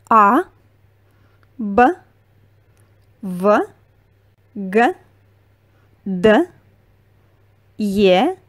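each Russian letter read out slowly with pauses; name every letter clearly, one by one; Russian alphabet. Shown as a demonstration. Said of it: "let's go over the alphabet".

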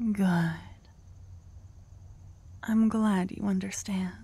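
whispered devotion. Acted. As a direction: breathe it close to the ear. Whispered roleplay to partner.

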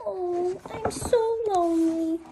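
soft, sad little moan; lonely sigh. Acted. The lonely dinosaur, sighing softly to herself.

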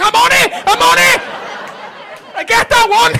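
mock the lad's thrilled eagerness; imitating eager excitement. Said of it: "He's like".

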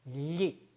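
리 with the tongue blade flat on the palate, like Italian gli; palatal gli sound. Shown as a demonstration. Teacher demonstrating the Italian gli sound. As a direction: press the tongue's front to the roof for 리. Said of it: "천장에 붙인 다음에 리를 발음해 보세요".

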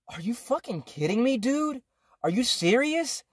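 high-pitched retold disbelief; incredulous. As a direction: demand it in stunned disbelief, pitch climbing.

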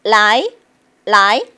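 "라이" swept upward, loud; rising tone. Shown as a demonstration. Teacher showing learners they can glide up, rising tone. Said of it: "올라갈 수 있겠죠".

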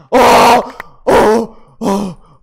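loud sudden oh of surprise; startled shout. Real, not acted. Gamer ambushed mid-fight, loud startled oh. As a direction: jolt as if ambushed.

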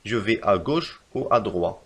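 slow, careful example; slow dictation. Shown as a demonstration. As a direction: read the example slowly. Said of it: "لنرى مثال".

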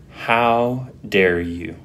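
indignant. Retold or imitated. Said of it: "The indignation".

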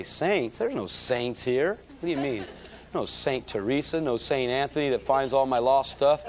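retold indignation, climbing in pitch; incredulous protest. Young Catholic in the balcony hears "saints", incredulous.

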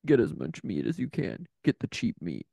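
very low, gruff orders; harsh barking commands. Retold or imitated. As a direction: bark out the shopping list. Penny giving orders.

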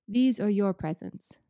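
slow, grand and kindly giver; a hint of a jolly old giver; Father Christmas, lightly voiced. Father Christmas handing out presents, lightly voiced.

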